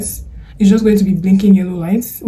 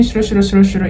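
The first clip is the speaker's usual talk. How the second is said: imitating fast, blurred chatter; mock rapid-fire talk; much faster than usual. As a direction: rattle off nonsense syllables in imitation of rushed speech. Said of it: "Don't talk too fast".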